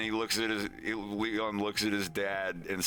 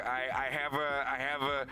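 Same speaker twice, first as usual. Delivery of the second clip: higher, halting acted stammer; nervous stammer; 7 semitones higher than usual. Wolf fumbles for words as Leon advances, nervous stammer. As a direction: stumble over the words, higher.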